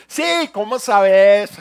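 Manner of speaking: loud, slow, exaggerated open-mouth reply; mock the borrowed voice; imitating the friend. Friend answers the preacher, loud hammed-up open mouth. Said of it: "Me dice".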